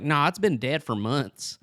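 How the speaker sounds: a hint of cartoon kid; Turkey Feather. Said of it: "looking and sounding like Bobby Hill".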